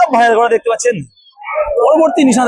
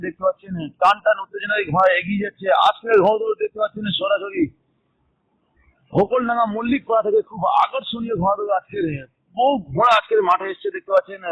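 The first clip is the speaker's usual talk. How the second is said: race caller. Acted. Live horse race commentary.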